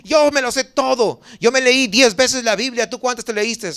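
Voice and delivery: a hint of a show-off daring others; smug know-it-all. Preacher mocking Bible-reading show-offs, lightly smug. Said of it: "no para poder decir".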